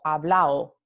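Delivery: "hablao" with no D between the final vowels; dropped D. Shown as a demonstration. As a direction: let "hablao" end in a gliding a-o. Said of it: "la omisión de la D entre vocales".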